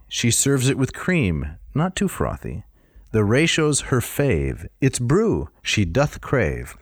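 slow, sing-song limerick recital; bouncy limerick lilt. Shown as a demonstration. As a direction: read it out like a silly poem. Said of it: "Here you go".

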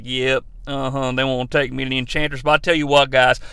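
lightly voiced Rick Flag confessing; low mock Flag. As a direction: play him as a deadpan dimwit. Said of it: "Rick Flag's like".

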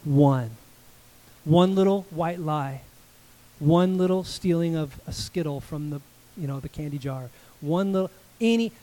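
sincere and firm, each one pressed home; earnest answer. Retold or imitated. Pastor answers the boy's question, earnest and firm. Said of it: "But I did look at him and I go".

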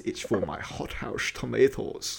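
lightly voiced Russian smuggler accent. Russian truck driver explains fertilizer at customs, mock Russian accent. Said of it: "Russian guy who's trying to put on a Canadian accent".

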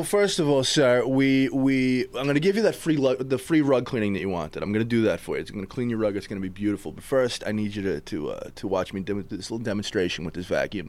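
a hint of a smooth door-to-door salesman; easy, friendly sales patter, lightly voiced; lightly played vacuum salesman winning over a customer; salesman pitch. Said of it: "Give me your pitch right now".

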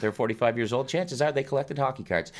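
booming eighties TV ad pitch; announcer voice. Acted. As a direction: sell it like a K-Tel commercial. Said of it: "channeling, like, a nineteen eighties K-Tel commercial".

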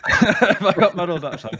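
high, drawn-out words through laughter; flustered, laughing admission; laughing embarrassedly. Real, not acted. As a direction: laugh at your own slip as you admit it. Embarrassed by own slip, laughing.

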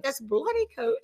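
put-on "This bloody coat" in a light, jokey British accent; tossing off the butcher's slogan British-style; mock British accent. Joking about the butcher's slogan, in a mock British accent. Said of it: "He could say it with a British accent".

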